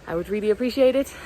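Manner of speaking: breathless after the hike; short of breath, panting lightly. Real, not acted. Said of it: "I'm a little bit out of breath".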